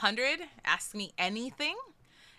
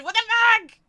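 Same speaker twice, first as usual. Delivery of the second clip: startled, high exclamation; stunned by the donation; shocked outburst; 14 semitones higher, 11 dB louder, much faster than usual. Real, not acted. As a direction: blurt it in real shock. Big donation just arrived.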